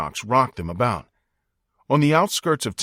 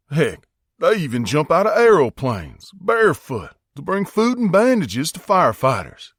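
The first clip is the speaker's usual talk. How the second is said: higher and louder, building amazement; rising marvel; 5 semitones higher, 4 dB louder than usual. A narrator's reading. Earl telling the boys about fearless women, marveling. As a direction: let the wonder climb to the end.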